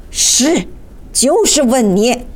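curt, irritated insistence; angry retort. Acted. Magician presses Seibel for an answer, angrily. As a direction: cut him off crossly. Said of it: "茨瓦克曼怒气冲冲地说".

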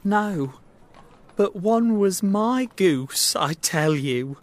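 high, insistent protest; crying out. Acted. Little man insisting to the shopkeeper about his goose, crying out. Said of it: "cried the little man".

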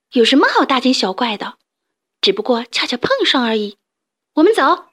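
a touch of sulky scorn; mildly grudging. Acted. Jealous hens dismissing the fuss, lightly scornful. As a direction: brush it off with slight resentment. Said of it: "不服气地说道".

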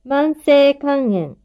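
slow, careful dictation; each word said slowly and clearly; dictating. Shown as a demonstration. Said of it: "書き取ってください".

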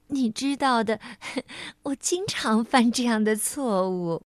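sheepish giggles between words; mild bashful giggle while admitting a mistake; embarrassed laughing. Acted. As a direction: laugh it off, a little shy. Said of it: "她不好意思地笑着说".

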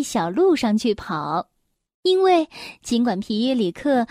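measured bedtime-story reading; children's story narration. Acted. Mother reads an elf tale to a little one, storytelling. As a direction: read it gently to a small listener.

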